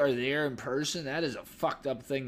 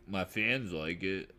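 cocky Dahmer; 6 semitones lower, 6 dB quieter, slower than usual. Retold or imitated. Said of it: "getting kinda cocky".

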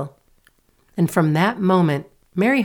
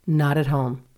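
monotonous. Acted. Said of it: "the same monotonous response".

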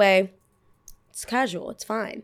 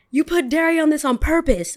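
higher-pitched indignant customer, imitated; mock accusation; 7 semitones higher than usual. Customer accusing the barista over dairy, mock indignant. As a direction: act out an outraged complaint.

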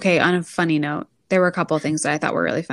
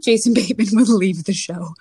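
laughing; 4 dB louder than usual. Real, not acted. Laughing while joking.

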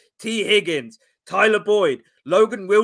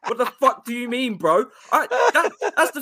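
laughing while talking; words broken by laughter; 5 semitones higher, 3 dB louder than usual. Real, not acted. Laughing through the joke.

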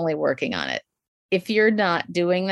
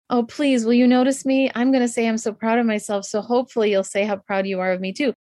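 pleading for notice; 4 semitones higher than usual. Retold or imitated. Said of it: "it was like a rescue wish".

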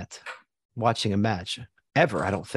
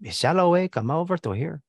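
put-on Mexican accent; 5 semitones higher than usual. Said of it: "Was that accent decent?".

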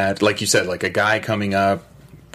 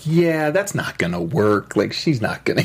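sarcastic. Retold or imitated. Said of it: "her tone was very sarcastic".

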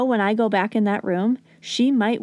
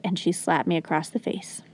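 whispered; 4 semitones lower, 6 dB quieter than usual. Real, not acted. Telling how the toddler slapped her.

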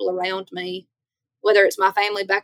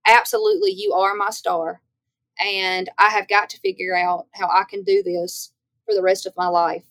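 excited agreement. Retold or imitated. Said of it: "I was just like".

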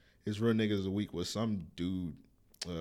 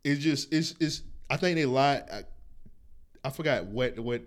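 real stumbling over words; stuttering. Real, not acted. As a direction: trips on the first words, restarting. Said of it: "I'm stuttering like a motherfucker".

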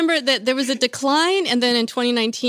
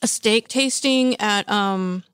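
mouth full; slower than usual. Real, not acted. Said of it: "Yes, I'm speaking with my mouth full".

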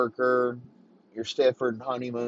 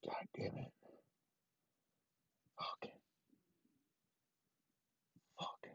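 muttered curse; 4 semitones lower, 18 dB quieter than usual. Retold or imitated. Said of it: "Derek's like".

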